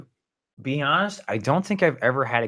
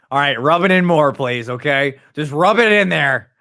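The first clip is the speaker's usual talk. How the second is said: mock offense; 4 semitones higher, 4 dB louder than usual. Teased, feigning offense.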